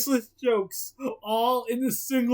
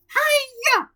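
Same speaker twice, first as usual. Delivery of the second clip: high, loud greeting; cheery shout; 8 dB louder than usual. Acted. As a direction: yell out a bright hello. Chapter opening shout.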